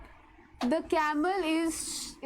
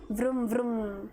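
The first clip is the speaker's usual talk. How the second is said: imitating engine noise; 3 semitones lower, much faster than usual. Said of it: "this kind of voice".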